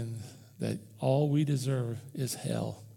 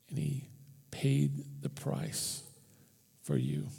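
slow, breathy whisper of awe; 5 dB quieter than usual. Acted. Preacher telling the congregation, slow hushed whisper. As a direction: drop to a slow whisper for the climax.

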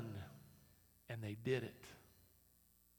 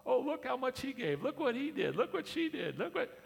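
mock praise; 11 semitones higher, 7 dB louder than usual. Mocking glory-seeking praise.

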